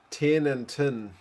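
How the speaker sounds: "Tin and tin" said slowly with Kiwi vowels, both words sounding like "tin"; "Tin and tin" the New Zealand way, short flat i in each word. Shown as a demonstration. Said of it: "explain the Kiwi accent to the wife".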